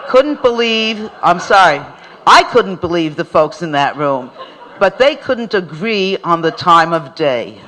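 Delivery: words broken by real laughter; chuckling as the memory comes back; laughing. Real, not acted. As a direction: laugh through the line. Laughing while telling story.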